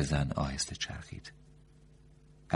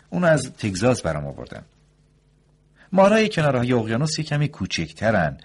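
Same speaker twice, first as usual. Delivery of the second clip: much higher, louder doctor voice; the doctor proudly shows his big rattlesnake; doctor's voice; 9 semitones higher, 10 dB louder than usual. A narrator's reading.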